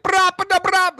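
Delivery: high, loud rolled dancehall noises; imitated dancehall shout. Describing a comedian's last level of Jamaican ordering, mock dancehall shouting. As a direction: blurt wild Jamaican-style vocal bursts, very high. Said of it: "By the end of it, he's just like".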